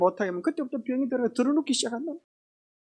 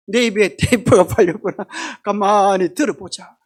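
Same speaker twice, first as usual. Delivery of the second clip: gritted self-talk; 3 dB louder than usual. Pretend. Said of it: "화딱지가 나고 천불이 나더라도".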